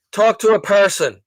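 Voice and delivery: mock demand to the phone system; calling out. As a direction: say it firm to the phone menu. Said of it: "it just gets louder".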